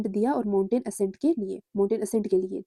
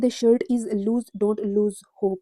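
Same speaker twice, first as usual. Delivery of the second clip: slow dictation reading; much slower than usual. Shown as a demonstration. Reads quiz sentence aloud slowly.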